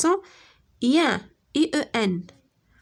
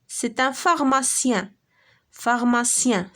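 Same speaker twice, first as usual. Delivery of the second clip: slow model word; slower than usual. Shown as a demonstration. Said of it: "Écoute et repère le son".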